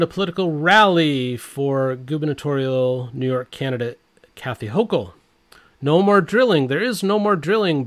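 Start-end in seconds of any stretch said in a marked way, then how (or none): 5.8-7.9 higher, sharp retort, a bit louder; mock snap. Biden snapping at a woman at the rally, mock snap. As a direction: bite the words off like a testy reply. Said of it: "Biden snapped at a young woman".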